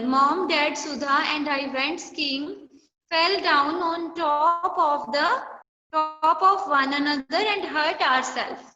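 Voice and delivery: slow, word-by-word reading of the sentence; slow dictation reading. Shown as a demonstration. Teacher slowly reading a sentence to the class. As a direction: read it out slowly for the class to follow.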